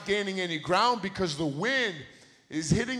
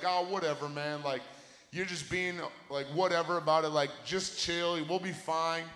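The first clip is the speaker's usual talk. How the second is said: softer, lower, laid-back brush-off; lightly acted too-cool shrug; dismissive; 4 semitones lower, 6 dB quieter than usual. Boys waving off a friend's storm warning, dismissive.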